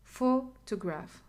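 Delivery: Photograph slowly, PHO held and set apart; slow demo of Photograph, stressed at the start. Shown as a demonstration. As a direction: lean on the first syllable of Photograph. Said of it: "the stress is in photo".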